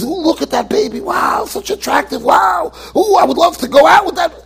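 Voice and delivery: mock leering admirer. Preacher mocks a guy ogling a baby, gushing. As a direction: ham up a creepy guy gawking at a baby. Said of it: "and says".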